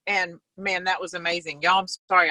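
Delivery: talking through a bite of biscuit; words round a mouthful; mouth full. Real, not acted. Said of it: "I'm eating a biscuit".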